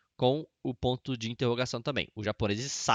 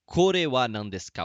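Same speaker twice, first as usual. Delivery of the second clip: slow model phrase; 4 dB louder, slower than usual. Shown as a demonstration. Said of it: "pode falar".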